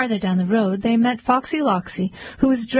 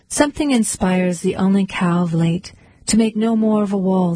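calm poetry reading; poem reading. Acted. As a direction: read it like a poem to an audience. Reads a Robert Frost poem.

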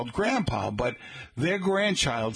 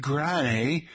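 British Granny; 4 semitones higher than usual. Retold or imitated. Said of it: "with a slight British accent".

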